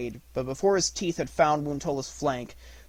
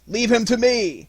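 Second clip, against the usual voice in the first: higher, louder growl of a demand; wolf shouting to keep his kill; wolf's loud claim; 10 semitones higher, 10 dB louder than usual. A narrator's reading. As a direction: snap it out to keep the prey.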